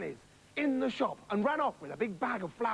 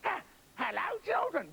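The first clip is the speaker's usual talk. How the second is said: high, sweet put-on mother voice; wolf nailing his high nice voice; 8 semitones higher than usual. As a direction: coo it sweetly. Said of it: "that's it".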